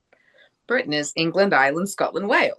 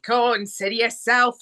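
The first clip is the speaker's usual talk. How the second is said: musical-theatre Cockney; Cockney accent; 4 semitones higher than usual. Shown as a demonstration. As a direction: demonstrate a chirpy stage Cockney. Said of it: "like, Cockney".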